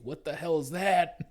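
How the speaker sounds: laughing imitation of a redneck spotting an alien; mock redneck yell. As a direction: yell it like a startled farmer. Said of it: "He's like".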